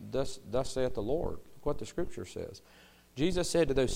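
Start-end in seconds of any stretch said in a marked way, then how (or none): 0.1-2.6 calm. Retold or imitated. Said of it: "you can just very calmly say".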